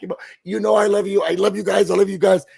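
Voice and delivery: overly sweet, fast, gushing apology; mimicking Chelsea. Houseguest imitating Chelsea's sappy goodbye to the jury, gushing. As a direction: gush apologies like Chelsea on the block. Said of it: "She was like".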